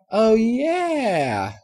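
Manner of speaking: put-on high, drawn-out little girl voice; drawling filly. A narrator's reading. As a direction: stretch it out like a kid remembering. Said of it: "Apple Bloom drawled".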